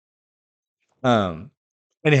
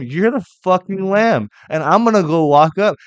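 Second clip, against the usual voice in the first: mock blurted truth; 10 semitones higher, 9 dB louder than usual. Mock inner thought of Abraham.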